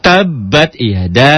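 "Tabbat yada" slow, drawn out; slow recitation. Shown as a demonstration. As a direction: recite it slowly. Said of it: "Alifnya itu bukan yada a".

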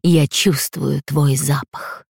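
slow, low-key predatory growl. Acted. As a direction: drag it out like a hungry beast. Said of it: "прорычал он". (медленное рычание)

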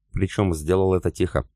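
ordinary delivery, nothing marked

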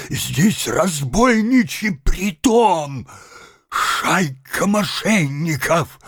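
building from slow accusation to high, loud shout of murder; outraged cry for help. A narrator's reading. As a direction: work up into a scandalized howl. Man cries out robbery.

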